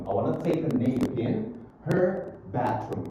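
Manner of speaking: "nap in her" joined, slowing on "her bedroom"; linked words. Shown as a demonstration. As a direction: link "nap in her" as a teacher's model. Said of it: "Jadi, disambung".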